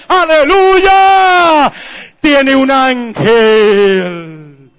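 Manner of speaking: high, emphatic preaching with long-held praise words; fervent pulpit testimony, stretched at the climax; full-force preaching. Real, not acted. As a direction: build to a drawn-out hallelujah.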